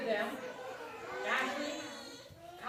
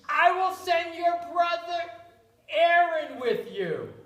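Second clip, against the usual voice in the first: booming God voice, much louder; God's deep voice; 5 semitones higher, 6 dB louder than usual. Acted. God speaks to Moses, booming and loud. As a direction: boom out the name. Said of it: "God has a deep voice".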